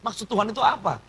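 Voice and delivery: exasperated, plaintive question; retold grumbling. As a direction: grumble at God, reenacted.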